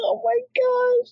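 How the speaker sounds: laughing squeal of shock; squealing reaction. Real, not acted. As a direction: squeal it in disbelief. Reacting to the passage.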